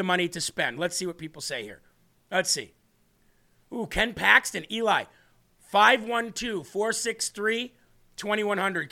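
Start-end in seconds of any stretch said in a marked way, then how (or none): 5.6-8.9 slow dictation. Shown as a demonstration. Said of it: "Can you write that down real quick?".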